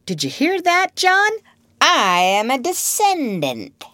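high, thrilled announcement to brother; proud child. Acted. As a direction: crow about it like a small boy. Child proudly tells John.

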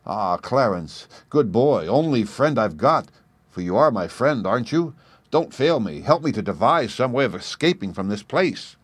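a mild plea to a friend; gently begging for help, understated; asking Clarence to help him escape, mildly pleading; beseeching. Acted. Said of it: "So I said beseechingly".

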